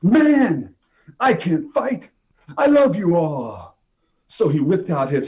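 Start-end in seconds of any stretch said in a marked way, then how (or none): 0.0-3.8 high, loud cry of stop; pleading shout. Acted. J-Sack begs the others before the fight, high shout. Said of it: "J-Sack was like".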